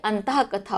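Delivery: अंतः with a clear breathy h, said softly; correct pronunciation. Shown as a demonstration. Teacher modelling अंतः कथा quietly for students. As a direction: soften into अंतः, then कथा. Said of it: "ये ज़्यादा सही है".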